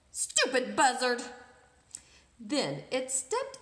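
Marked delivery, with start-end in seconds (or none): 0.1-1.2 cheerful parrot. Acted. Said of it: "cheerfully said".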